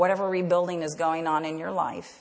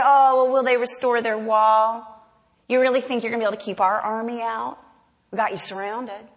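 louder scornful jeer from the enemy army; mocking taunt; 3 semitones higher, 5 dB louder than usual. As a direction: sneer at the builders. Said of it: "And then they say".

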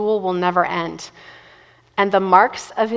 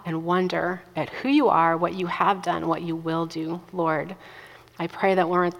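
benediction. Real, not acted. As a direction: pray it gently over the room. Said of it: "I'm gonna pray as a benediction".

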